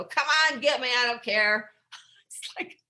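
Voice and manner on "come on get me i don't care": louder, higher dare; taunting the spirits. Retold or imitated. Alone at night taunting the office spirits, louder. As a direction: call out to the ghosts, daring them.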